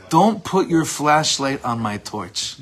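slow, loud mock rebuke; retold scream. Teacher repeating the rabbi's line of all lines, mock yell. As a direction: repeat the famous line slowly and forcefully. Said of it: "screamed at him".

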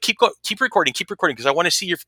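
high-pitched, hurried insistence; retold eager prompting; excited urging. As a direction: urge them on eagerly, words tumbling out. Urging podcaster to keep recording.

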